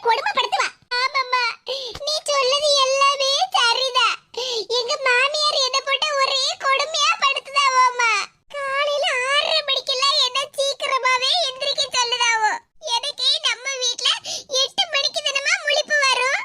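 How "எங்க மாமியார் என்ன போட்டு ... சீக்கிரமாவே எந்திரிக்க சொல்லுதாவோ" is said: crying complaint. Acted. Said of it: "நான் இப்படி அழுதுகிட்டு வந்து நிக்கேன்".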